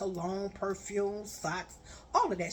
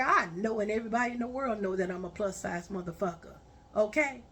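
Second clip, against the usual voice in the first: angry; faster than usual. Retold or imitated. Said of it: "I said".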